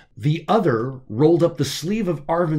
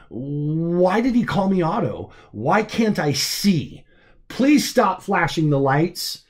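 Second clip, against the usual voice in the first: higher, slow disoriented plea; confused pleading; 5 semitones higher, slower than usual. Acted. Drugged Arvin pleading in confusion, higher and slow. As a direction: beg in bewildered distress.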